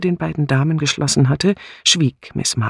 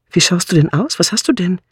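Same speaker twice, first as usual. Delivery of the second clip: raised, higher voice of concern; anxious; 6 semitones higher, 3 dB louder, faster than usual. A narrator's reading. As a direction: ask with mild alarm. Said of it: "rief Bunch ängstlich". (besorgt, ängstlich gefragt)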